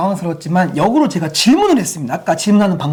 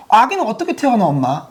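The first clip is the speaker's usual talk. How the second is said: put-on child asking; 3 semitones higher than usual. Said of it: "또는".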